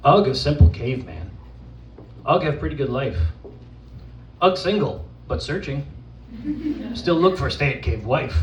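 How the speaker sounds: lightly voiced simple caveman; caveman persona. Poet performing as Ugg for the audience, caveman persona. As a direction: recite it as an earnest caveman, lightly played. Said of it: "from the perspective of an actual caveman".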